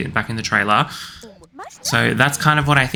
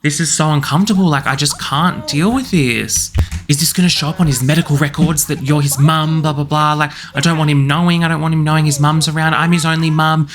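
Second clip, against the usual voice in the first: mildly upset protest, slightly raised voice; 4 semitones higher than usual. Acted. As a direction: act out an upset mother pushing back. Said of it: "show how upset she is".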